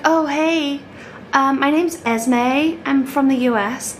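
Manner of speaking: light mock American accent; imitated American accent. Retelling her fib to the stallholders, mock American accent. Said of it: "she pretended to be an American".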